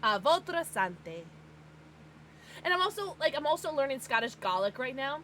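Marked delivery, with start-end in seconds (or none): 0.2-1.2 slow "votre sante" with an American accent; self-mocking American French; Americanized French. Shown as a demonstration. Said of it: "a white American saying it".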